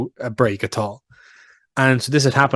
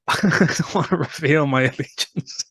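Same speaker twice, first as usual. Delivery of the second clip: slow, laughter running through the words; laughing dodge; 3 semitones higher than usual. Real, not acted. Co-host asks about giving away his hand, laughing dodge. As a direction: laugh your way through declining to answer. Laughing while dodging a question.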